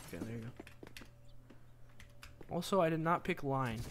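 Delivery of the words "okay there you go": slow, breathy whisper to yourself; whispered aside. Real, not acted. Streamer whispering slowly as she finishes a task. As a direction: murmur it slowly under your breath. Muttering while fixing something.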